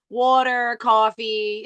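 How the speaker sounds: New York "coffee" and "water", open vowels; Long Island accent. Shown as a demonstration. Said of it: "just the way we say coffee".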